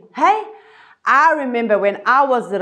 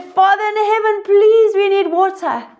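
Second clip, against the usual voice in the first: mildly angry plea; 6 semitones higher than usual. Acted. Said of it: "he got angry with them".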